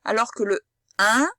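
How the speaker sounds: "un" said smiling, lips spread; un with a smile. Shown as a demonstration. Teacher showing the smiling "in" sound to a child. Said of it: "on sourit".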